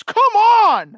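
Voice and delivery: put-on a loud, high kid's protest; whiny kid yell. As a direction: whine it out like a thwarted kid. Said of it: "he goes".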